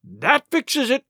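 high, slow, breath-caught words; terrified pirate gasping to his mates; gasped in fear. Acted. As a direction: gasp it out, shaken. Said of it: "gasped one".

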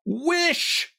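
very high, drawn-out command; insist, leaving no room for refusal; insistent repeat. A narrator's reading. Wife presses her wavering husband, insistent. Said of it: "repeated his wife".

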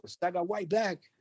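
slow, drawn-out studio tag; imitated ad-lib tag. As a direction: drawl the tag like the recorded drop.

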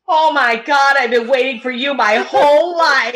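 high, loud, gushing mock voice; mock excited man. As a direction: ham up his eager gushing. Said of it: "he was like".

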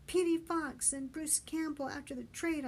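mild shout in reply; shouting back. A narrator's reading. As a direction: call it back over distance. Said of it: "I shouted back".

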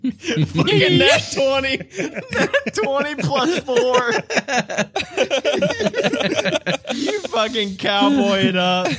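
high, laughing, slowed delight over a lucky roll; laughing through the words; laughing hard. Real, not acted. Game master laughing at a player's perfect roll, laughing delight. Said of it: "GM laughing at natural twenty".

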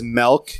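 "milk" said as "melk"; friend's pronunciation. Retold or imitated. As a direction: give "milk" an e vowel, as in "elk". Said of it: "friend from college who says".

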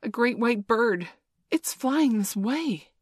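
high, wondering exclamation; awestruck. A narrator's reading. Nibs telling boys of the strange bird, awestruck. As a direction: draw it out in wonder. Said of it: "Nibs said, awestruck".

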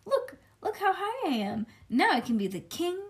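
put-on high, excited little-girl voice; child showing off. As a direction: show off proudly to Grandpa. Child shows off from fridge.

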